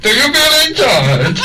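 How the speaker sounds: Bane impression attempt. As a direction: practise the Bane line. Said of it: "I'm gonna keep working on that".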